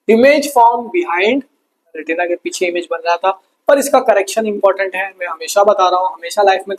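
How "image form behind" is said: dictation. Shown as a demonstration. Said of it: "dictating notes".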